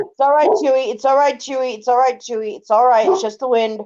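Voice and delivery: calm the scared dog down; talking to the dog to settle it; soothing the dog. Real, not acted.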